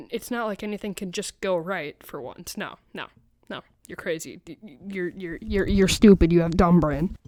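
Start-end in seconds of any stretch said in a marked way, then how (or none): 3.9-7.2 mock insult. Mock insult of a rude teacher.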